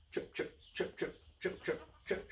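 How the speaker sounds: very soft, crisp little trips; hushed, percussive pitter-patter; tiny hoof steps. Acted. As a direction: imitate tiny hooves tapping across wood. Tiny hooves imitated.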